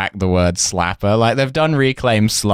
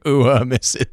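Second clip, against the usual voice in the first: mock Southern accent; 3 semitones higher than usual. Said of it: "in, like, a deeply Southern accent".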